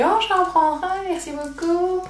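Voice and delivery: high, sugary fake-pleased thanks; overly sweet politeness. Acting pleased to the client.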